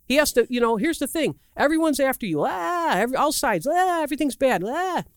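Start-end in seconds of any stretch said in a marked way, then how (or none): 2.5-5.0 high, hammed-up groans of distress; mock distressed groans. Preacher acting David's distress as sound effects, hammed up. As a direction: play up the agony for laughs. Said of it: "How do you like that for sound effects".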